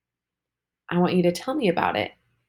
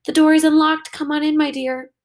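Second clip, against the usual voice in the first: grandmother; 9 semitones higher, 5 dB louder than usual. Acted. Grandmother answers from inside the house.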